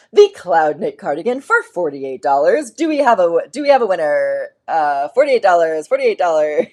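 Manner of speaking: loud auctioneer calling out bids; hammed-up auctioneer selling the lot. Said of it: "I sounded like a, um, uh, an auctioneer".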